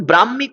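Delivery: "ব্রাহ্মী" as brammi, long m and no h; mispronunciation to avoid. Shown as a demonstration. Teacher warns students never to say this, mispronounced. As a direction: show the wrong "ব্রাহ্মী", brammi. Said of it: "এরকম বলবেন না".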